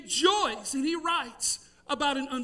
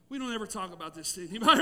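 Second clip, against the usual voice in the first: laughing; 6 semitones lower, much faster than usual. Retold or imitated. Embarrassed pact after the crow.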